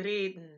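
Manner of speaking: reden softly, with a tapped R; tapped German R. Shown as a demonstration. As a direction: say reden with the ladder-like R. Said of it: "take that R sound".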